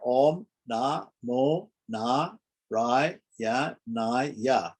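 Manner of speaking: Om, Na, Mo, Na, Rai, Ya, Na, Ya counted out singly; list-like Om, Na, Mo, each syllable on its own. Shown as a demonstration. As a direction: separate each syllable from Om to the final Ya. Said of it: "There are eight syllables".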